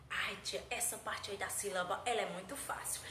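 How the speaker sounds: low, softened pupil voice; pupil talking to teacher. Acted. Pupil telling teacher syllables are very easy, low-key.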